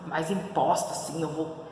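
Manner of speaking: lightly acted, grave and authoritative; angry low voice. Shown as a demonstration. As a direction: drop the voice to sound stern. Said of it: "Se eu tô brava".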